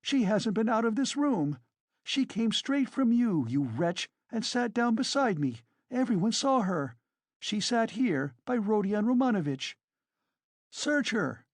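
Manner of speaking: high-pitched, agitated woman; indignant, overwrought challenge; frenzied tirade. A narrator's reading. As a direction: rail at the accusers in defiant outrage. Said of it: "in a frenzy".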